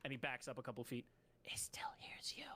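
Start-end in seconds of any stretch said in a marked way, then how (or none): 1.4-2.4 unvoiced warning whisper. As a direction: breathe it so it can't hear. Creature warns party quietly.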